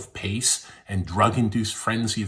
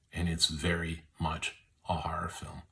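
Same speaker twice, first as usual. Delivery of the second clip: hushed, spooky whisper; 4 semitones lower, 9 dB quieter than usual. Real, not acted. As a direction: drop to an eerie whisper on horror. Hushed aside on horror films.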